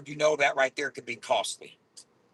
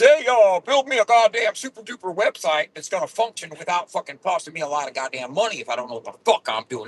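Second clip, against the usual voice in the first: a hint of a bossy client, louder; mock demanding client; 6 semitones higher, 3 dB louder than usual. Mocking a clueless client to his viewers, loud and bossy. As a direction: lightly voice a clueless boss ordering around. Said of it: "you can't just".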